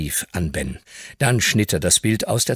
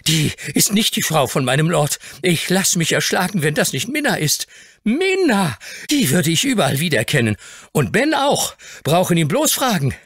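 put-on higher, scornful boy's voice; deep contempt; 10 semitones higher than usual. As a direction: spit out her name with scorn. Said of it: "voll tiefster Verachtung".

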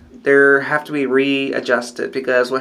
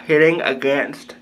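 lip pulled aside by finger; speaking with finger in mouth. Real, not acted. Seen 3: index finger pulls lower lip and cheek while speaking.

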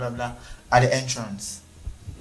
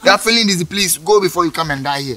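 angry yell; 3 semitones higher, 3 dB louder than usual. Acted. Officer yelling at customer.

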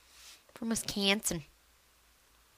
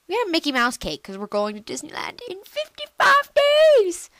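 higher, eager retelling; excited; 8 semitones higher than usual. Real, not acted. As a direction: share the news with rising glee. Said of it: "repeats it livelier".

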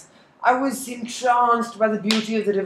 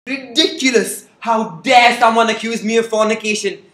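indignant outburst; 2 semitones higher, 5 dB louder than usual. Acted. Lenin outraged at accusation.

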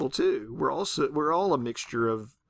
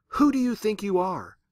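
mock yell to God; 8 semitones higher, 4 dB louder than usual. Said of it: "She yells to God".

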